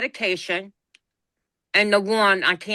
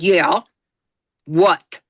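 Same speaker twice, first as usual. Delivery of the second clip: blunt, loud one-word replies; curt answer; 2 semitones lower, 5 dB louder than usual. Retold or imitated. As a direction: answer gruffly, keeping it to the point. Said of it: "Like that".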